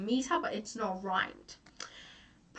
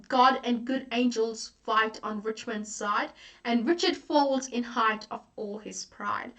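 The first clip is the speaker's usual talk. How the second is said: slow deliberate recitation; slow quoted verse; 3 dB louder than usual. Shown as a demonstration. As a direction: recite the couplet with measured weight. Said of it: "such a good quote".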